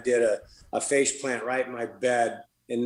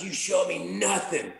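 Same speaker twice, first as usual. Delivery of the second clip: hyped up; 6 semitones higher than usual. Retold or imitated. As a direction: imitate a worked-up challenge, pitched higher. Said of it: "when he's all hyped up".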